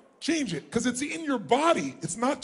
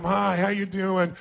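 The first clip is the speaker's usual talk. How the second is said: bored greeting; 3 semitones lower, slower than usual. Shown as a demonstration. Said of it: "walk up to them like it's a total waste of your time".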